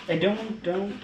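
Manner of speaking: warning. Real, not acted. Stopping dog from grabbing meat.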